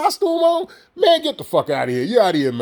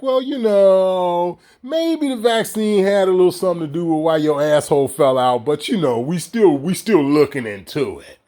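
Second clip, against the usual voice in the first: soften the blow. Retold or imitated. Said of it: "they trying to soften the blow".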